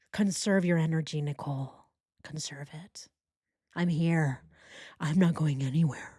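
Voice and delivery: low, hushed mock boyfriend voice; Chris. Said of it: "And Chris is like".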